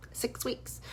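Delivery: hushed disbelieving repeat; whispered echo. Real, not acted. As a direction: breathe it out in a whisper, stunned.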